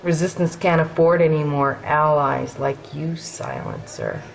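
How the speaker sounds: menacing warning. Acted. Soldier warns Captain about allies like Silencer, menacing.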